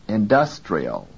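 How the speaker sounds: INDUSTRIAL with stressed DUS, full vowel. Shown as a demonstration. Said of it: "pronounced with full quality".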